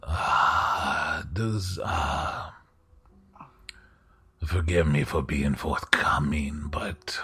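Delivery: slow, hushed aristocrat, often dropping to a whisper; a polite lord, unhurried and confiding; courtly host voice. Acted. GM holds the host's voice.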